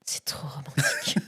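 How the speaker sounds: breathy mock-romantic whisper; whispered swoon.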